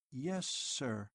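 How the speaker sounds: strangely altered robot reply; odd voice. A narrator's reading. Robot answering the eldest keeper in an odd voice. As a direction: say it as if something is off inside. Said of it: "His voice sounded odd".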